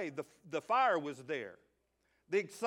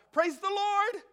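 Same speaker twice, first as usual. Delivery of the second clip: high, loud mock churchwoman's cry of praise; excited exclamation; 13 semitones higher, 6 dB louder, slower than usual. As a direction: call it out like a joyful lady in church. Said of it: "she said out loud".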